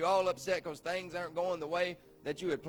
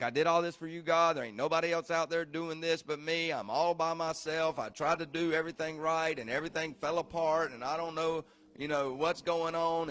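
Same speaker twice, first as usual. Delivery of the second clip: mock complaint. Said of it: "he's like, 'cause he was complaining".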